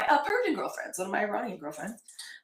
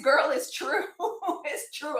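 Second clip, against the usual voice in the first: laughing through the words; 5 semitones higher, slower than usual. Real, not acted. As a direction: giggle while insisting it's true. Laughing at her own joke.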